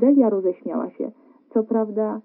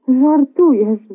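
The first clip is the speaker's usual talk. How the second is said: exclaiming; 5 semitones higher, 8 dB louder, much slower than usual. A narrator's reading. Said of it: "zawołała Delia".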